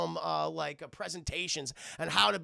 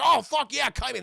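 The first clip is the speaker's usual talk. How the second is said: high, loud group cheer; excited cheer; 7 semitones higher, 6 dB louder than usual. Retold or imitated. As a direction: whoop it like fans who are thrilled. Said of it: "they're like".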